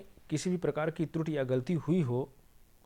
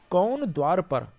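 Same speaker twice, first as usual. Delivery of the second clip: loud question, stress on कौन, falling away; emphatic questioning call, कौन hit hard; 6 dB louder, slower than usual. Shown as a demonstration. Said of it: "प्रश्नवाचक चिन्ह लग गया".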